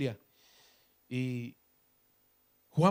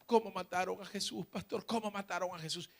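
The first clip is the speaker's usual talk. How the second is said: lightly acted tearful child, softer voice; imitating tearful child; 4 semitones higher, 5 dB quieter than usual. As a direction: plead softly like an upset little one. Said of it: "Y lloraba".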